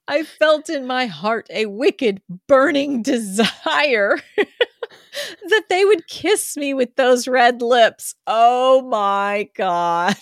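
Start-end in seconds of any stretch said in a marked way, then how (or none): 2.5-10.2 laughing. Real, not acted. Laughs while reading racy line.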